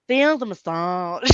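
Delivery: lightly voiced drawn-out TV-presenter impression; slow, stretched-out mock accent; Lloyd Grossman. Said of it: "I used to like Lloyd Grossman".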